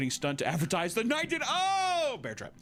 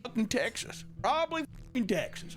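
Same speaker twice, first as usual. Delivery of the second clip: mock crowd; 8 semitones higher than usual. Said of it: "Everyone's like".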